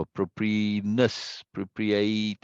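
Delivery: "appropriateness" with the weight on NESS, "appropriate" on ATE; end-syllable stress. Shown as a demonstration. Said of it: "with the end syllable".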